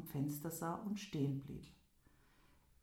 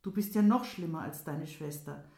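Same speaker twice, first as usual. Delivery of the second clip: louder angry scolding; angry outcry; 6 dB louder than usual. Acted. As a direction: scold her loudly. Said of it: "rief er". (laut und wütend schimpfend)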